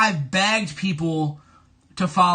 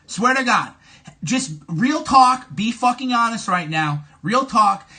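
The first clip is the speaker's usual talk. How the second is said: louder, insistent push; heated real talk; 5 dB louder than usual. Real, not acted. Streamer insisting to his chat, louder and heated. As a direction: lean in hard and insist.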